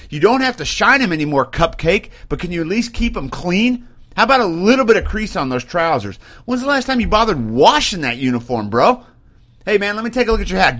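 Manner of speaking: a hint of a drill sergeant correcting troops; lightly voiced NCO barking at a sloppy soldier; strict sergeant. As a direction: sergeant chewing out a soldier about his uniform. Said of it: "No, it is".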